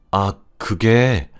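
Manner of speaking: slow, flustered stammer of an answer; falter, caught out with nothing to say; slow and at a loss. Acted. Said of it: "당황한 듯한 표정으로".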